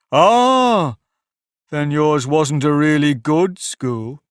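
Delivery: great relief. A narrator's reading. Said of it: "in a tone of great relief".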